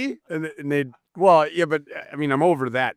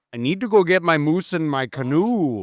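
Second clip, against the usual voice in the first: mock Northern accent; 2 semitones higher than usual. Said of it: "he thinks you sound like this".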